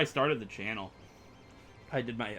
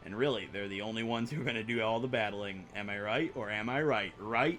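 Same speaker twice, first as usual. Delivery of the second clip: upbeat gym guide voice. Acted. Voicing the gym guide NPC.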